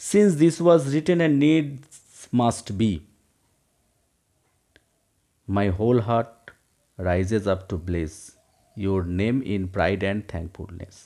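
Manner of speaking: slow, measured verse reading; poem recitation. Acted. Teacher reading a Browning stanza to students, slow recitation. Reads the poem aloud line by line.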